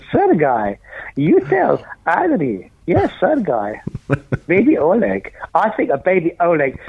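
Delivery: a lightly voiced Russian accent, slow on "You tell Adri"; hint of the meerkat ad's Russian accent; half-kept Russian accent. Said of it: "Meerkats, with the Russian accent".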